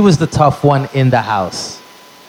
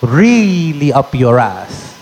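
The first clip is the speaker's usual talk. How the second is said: Latina mom cursing out the clerk; hammed-up accent; mom's accent; 3 semitones higher, slower than usual. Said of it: "That's exactly what she said".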